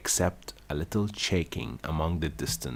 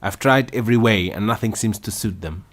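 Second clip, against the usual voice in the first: a touch of sobbing, louder; with a sob; 4 semitones higher, 8 dB louder, faster than usual. A narrator's reading. Pigeon complaining to Alice, understated sob. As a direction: lament with a sob in the voice. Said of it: "added with a kind of sob".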